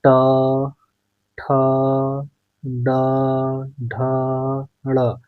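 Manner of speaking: ट, ठ, ड, ढ, ण said separately with pauses; spelling out consonants. Shown as a demonstration. Teacher demonstrating retroflex consonants slowly. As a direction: sound out ट ठ ड ढ ण one by one, tongue curled back. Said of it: "अब बारी आती है ट वर्ग की".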